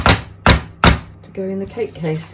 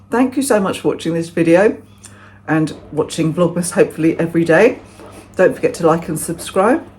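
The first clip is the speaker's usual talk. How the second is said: talking through a mouthful of muffin; words round a bite of cake; mouth full; 4 dB louder than usual. Real, not acted. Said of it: "I shouldn't talk with my mouth full".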